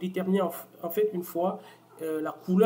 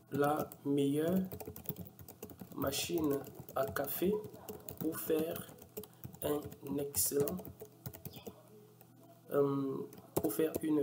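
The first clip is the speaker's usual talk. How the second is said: slow, drawn-out words as he types them; dictating at typing speed, words stretched with pauses; slow dictation; 5 dB quieter, slower than usual. Real, not acted. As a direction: spell it out slowly while typing into the box. Typing the product description aloud.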